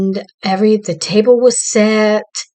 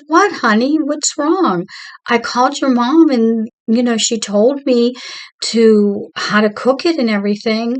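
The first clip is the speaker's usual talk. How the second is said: high, hurt retelling of a tearful plea; mock-upset young bride, pitched up; retold tearful protest; 3 semitones higher than usual. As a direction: plead in a higher voice, lightly imitating upset. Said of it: "so I started crying".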